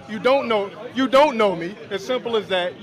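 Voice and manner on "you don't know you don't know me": mock tough guy. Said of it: "He starts e-thugging".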